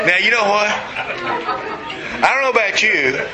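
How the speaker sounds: talking through leftover laughter; words broken by real laughter; laughing. Real, not acted. Preacher still laughing as he returns to the point.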